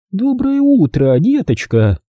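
cooing singsong in a high, drawn-out voice; syrupy lady greeting a child; sticky-sweet. A narrator's reading. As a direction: pour on sugary sweetness, starting high and sliding down. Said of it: "Сладким, прямо-таки липким голосом пропела".

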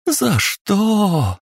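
high wailing sob of a question; wailing cry. A narrator's reading. Mother wailing over her dead daughter, high cry. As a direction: wail it out in grief.

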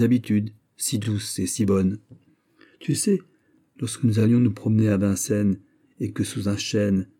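polite, guarded chatter; ladies in conversation. Acted. The two women converse. (dialogue de deux dames, voix légèrement plus aiguë)

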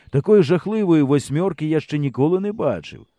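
plain reading voice

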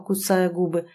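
plain reading voice

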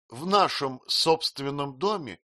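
ordinary delivery, nothing marked

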